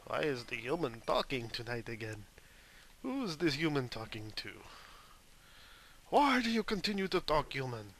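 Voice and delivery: lightly voiced nosy cat, rising to indignant; cat's voice. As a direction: speak as a cat questioning its human. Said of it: "Kitty's coming to see".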